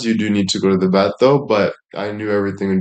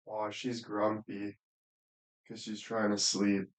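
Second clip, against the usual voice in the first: much softer, slow and tender over the sleeping pet; hushed cooing; 17 dB quieter than usual. Real, not acted. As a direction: coo softly so she stays asleep.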